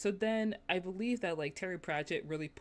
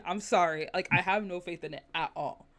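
mock-emphatic dismissal, half laughing; Terry Pratchett; 3 semitones higher, 16 dB louder than usual. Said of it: "was someone who was like".

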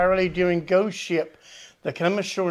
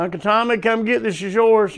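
calling out; 4 semitones higher, 4 dB louder than usual. Retold or imitated. Hollering mail names at dock.

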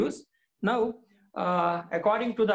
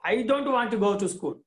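angry cry; 4 semitones higher, much faster than usual. Acted. Teacher voicing Swami refusing school, quick and angry. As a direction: blurt it out fast in anger. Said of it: "cried Swami angrily".

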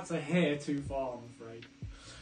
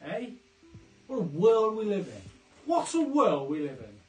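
put-on northern accent; 4 semitones higher, 4 dB louder than usual. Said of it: "I'll go northern 'cause I'm in Leeds".

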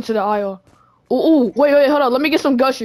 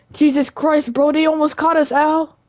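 rattled exclamation; 5 semitones higher, slower than usual. Pretend. Just escaped being caught.

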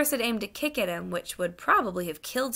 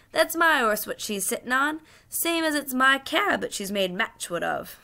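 higher-pitched Cockney cabman staking his claim; aggrieved cabby; 6 semitones higher, 4 dB louder than usual. Acted. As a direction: complain indignantly to the policeman.

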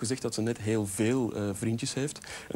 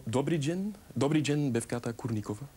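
fake Russian; 3 semitones higher than usual. Shown as a demonstration. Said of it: "kun je nog eens herhalen".

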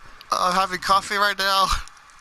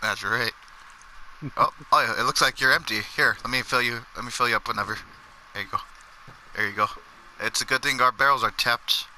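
lower, polite barkeep serving a customer; a lightly lowered bartender voice; 4 semitones lower, 3 dB quieter, faster than usual. Acted. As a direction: play the friendly bartender handing over drinks.

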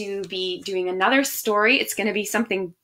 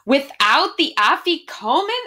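shocked shout; 4 semitones higher than usual. Acted. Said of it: "everyone shouted at once".

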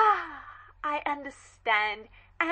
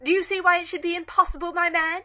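quick, louder demand; pressing interrogation; 3 semitones higher, 6 dB louder, faster than usual. Acted. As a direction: corner the servant. Dowager presses butler suspiciously.

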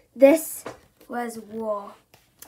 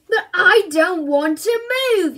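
put-on loud child's yell, higher; 6 semitones higher, 10 dB louder than usual. A narrator's reading. Bertie yells his refusal at his parents. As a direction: yell it, jumping in protest. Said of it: "yelled Bertie".

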